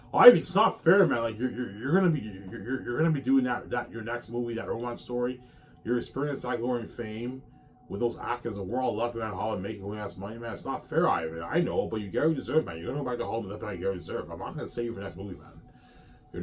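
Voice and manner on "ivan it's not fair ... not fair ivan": loud whiny complaint of an actor who was dropped; whiny actor protest. Retold or imitated. Actor pleading with Ivan about being left out, whiny and loud.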